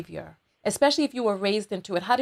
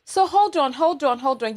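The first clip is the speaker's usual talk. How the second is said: high-pitched, louder, startled interruption; startled interjection; 6 semitones higher, 4 dB louder than usual. Real, not acted. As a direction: cut in, taken aback, to halt the story. Host halts guest at shocking disclosure.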